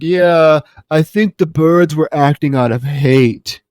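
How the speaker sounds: mock-earnest dull husband, drawn out; slow, hammed-up solemn agreement; imitated husband. Husband backs up wife in interview, mock-solemn. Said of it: "her husband's like".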